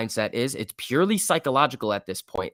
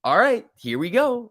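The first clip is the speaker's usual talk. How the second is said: pumped-up call; 10 semitones higher, 4 dB louder than usual. Retold or imitated. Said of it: "It's like".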